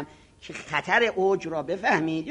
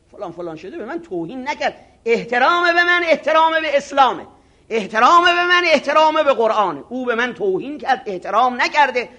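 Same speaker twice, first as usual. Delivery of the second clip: mock indignation; 4 semitones higher, 5 dB louder than usual. Voicing offended cleric plotting.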